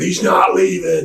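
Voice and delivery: high-pitched, stretched mock shout; excited crowd cry. Wrestler imitating fans who think he's staying, high excited yell.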